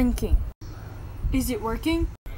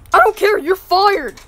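louder, dismissive yell; angry shout; 2 semitones higher, 6 dB louder than usual. Acted. Boy yelling at the console, angry and loud. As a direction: bark it out to end the matter.

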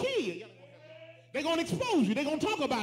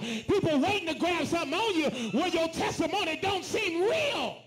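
rising preacher shout; 3 semitones higher than usual. Real, not acted. Preacher building to a climax.

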